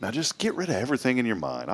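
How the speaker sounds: soft, hushed calming voice; guided meditation. Pretend. Host guiding the radio audience to relax, soft meditation voice. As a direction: gently coax them to empty the mind. Resumes the breathing exercise.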